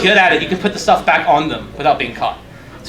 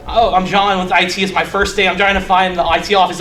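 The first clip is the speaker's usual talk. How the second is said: lightly acted stressed newcomer; fast talk. New I T worker to security guard, mildly stressed fast talk. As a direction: rattle off an excuse, mildly flustered. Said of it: "talk just fast enough that the person thinks you're stressed".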